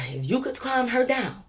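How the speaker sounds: high-pitched, slow, stretched plea; imitated officer. Officer chuckling at the friend, high drawn-out imitation. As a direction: drag it out high, imitating him. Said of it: "This what he was doing to me".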